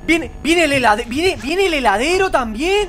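high, loud swooping list; exasperated rant. Real, not acted. Gamer swamped by enemies, exasperated high rant. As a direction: yell each arrival in disbelief. Rants at enemies arriving together.

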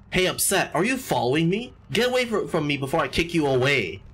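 a hint of a tough prison inmate; menacing inmate. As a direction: read the bully's threat with a pushy edge. Reads inmate's threat in voice.

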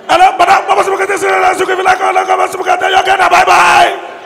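loud, high, fast phone voice; hasty phone call. Retold or imitated. Relative phoning so the first son cannot come, loud and rushed.

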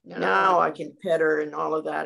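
usual speaking voice

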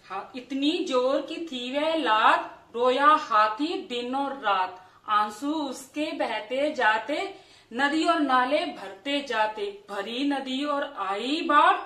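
slow, sing-song rhyme with a steady beat; children's poem recitation. Acted. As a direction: recite it line by line, drawing out the rhymes. (बच्चों की कविता का लयदार, धीमा पाठ)

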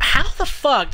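1 frustrated outburst. Real, not acted. Frustrated at pool shot.

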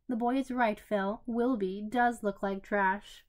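mumbling through a mouthful; mouth full. Acted. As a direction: talk round a bite of meat. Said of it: "mumbled through a mouthful of meat".

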